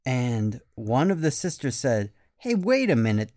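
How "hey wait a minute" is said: sudden realization. Acted. Sister notices warm weather.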